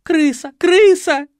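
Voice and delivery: very high loud squeal; shrill-pitched panicked screams. A narrator's reading. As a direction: squeal in terror. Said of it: "верещала девица".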